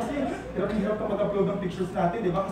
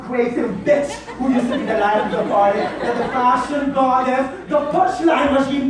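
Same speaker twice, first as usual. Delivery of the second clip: flamboyant pride; 2 semitones higher, 5 dB louder than usual. Acted. Partner recalling the old self, flamboyant and proud.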